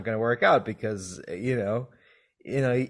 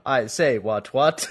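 mock posh English accent; 3 dB louder than usual. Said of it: "better English accent".

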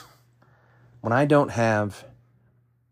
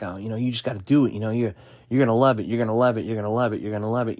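lightly mocking upbeat trainer voice; hammed-up cheerful coach, a bit faster; peppy fitness guru; faster than usual. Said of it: "fitness people will say shit like".

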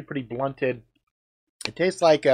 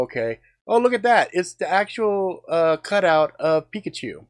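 excited; 5 semitones higher than usual. Retold or imitated. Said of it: "I can go".

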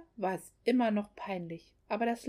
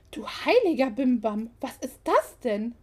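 shocked exclamation; 6 dB louder than usual. Acted. Mother-in-law shocked by calendar.

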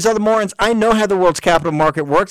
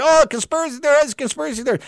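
high, sing-song mockery of the scoffers; mocking ridicule; 9 semitones higher, faster than usual. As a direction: mimic the doubters in a much higher voice. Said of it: "He's mocked and".

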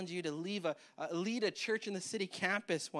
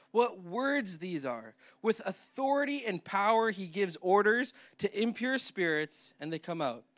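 scripture reading; 3 dB louder than usual. Acted. Pastor reads scripture aloud.

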